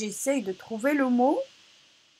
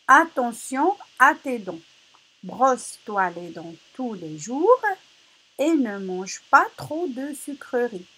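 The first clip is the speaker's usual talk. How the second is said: careful read-aloud; 3 semitones higher, 3 dB louder than usual. Shown as a demonstration. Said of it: "Je répète".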